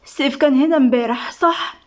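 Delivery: mildly shocked, seeking confirmation; a touch of disbelief at your own memory. Acted. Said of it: "نزلت ايديها من على وشها بصدمة".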